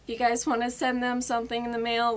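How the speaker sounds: ordinary talk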